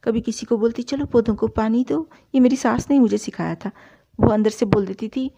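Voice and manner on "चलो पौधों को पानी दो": mock lady of the house giving orders, higher; bossy order. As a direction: play at bossing the servants. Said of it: "नौकरों पे भी रोब जमाने का". (नौकरों पर रौब जमाते हुए हुक्म)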